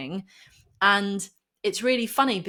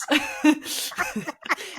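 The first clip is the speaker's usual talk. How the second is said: breathy worked-up laugh; 8 semitones higher than usual. Real, not acted. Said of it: "Sorry, I'm getting worked up".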